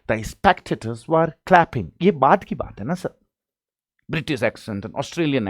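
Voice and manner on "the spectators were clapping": slow, higher-pitched British accent imitation; mock British accent. Shown as a demonstration. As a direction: put on a British accent, drawing the words out. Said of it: "British accent में बोला".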